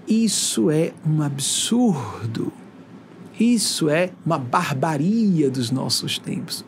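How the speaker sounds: slow, breathy whisper of disbelief; whispered outrage. Real, not acted. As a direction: hush it out, slowly, appalled. Indignação sussurrada. (sussurro lento e indignado)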